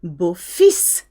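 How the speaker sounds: "Beau-fils" with the final S clearly heard; sounded final S. Shown as a demonstration. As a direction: end "Beau-fils" on a hissed "feess". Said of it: "you do hear the S here".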